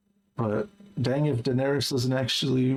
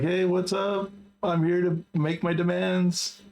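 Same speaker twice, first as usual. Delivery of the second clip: higher-pitched, lightly acted drunk; Poochie drunk; 5 semitones higher than usual. Reader retelling Poochie's drunken entrance, lightly mocked drunk. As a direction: mildly imitate a drunk announcing himself. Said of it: "So Poochie shows up drunk".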